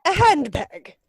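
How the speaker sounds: high, loud, appalled "A handbag?"; incredulous outburst. Acted. Lady Bracknell hearing Jack was found in a handbag, appalled disbelief. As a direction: recoil in disbelief.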